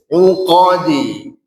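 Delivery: slow 'UQADI, rounded 'u, unrounded qo; pout on u only. Shown as a demonstration. Teacher corrects lip shape, 'Uqadi slow. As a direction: pout 'u, then relax lips for qa. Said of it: "Ko-nya tidak monyong".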